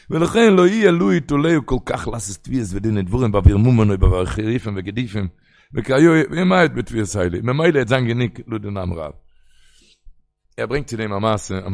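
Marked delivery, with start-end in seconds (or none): 0.1-9.1 fast, even reading of a Hebrew source; rapid text reading. Acted. Teacher reads the Hebrew source aloud to students, fast and even. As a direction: rattle off the quoted text quickly.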